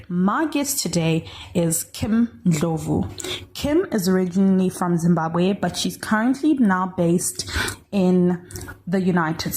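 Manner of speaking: loud, measured presenter's introduction; podcast intro read. Acted. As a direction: introduce today's guest to the listeners, projecting clearly. Host reads episode introduction.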